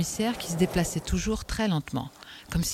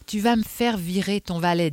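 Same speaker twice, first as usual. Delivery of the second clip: firmly; 4 semitones higher, 3 dB louder than usual. Acted. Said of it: "dit-il fermement".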